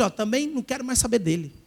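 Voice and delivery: hammed-up offended churchgoer; whiny believer. Mocking the needy modern believer who feels ignored, whining. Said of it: "crente do século vinte e um, ia falar assim".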